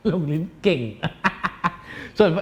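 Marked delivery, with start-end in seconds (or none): 0.9-2.1 soft breathy chuckle; quiet voiceless snicker; stifled laughter. Real, not acted. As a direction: laugh softly at your own joke. Laughing at own innuendo.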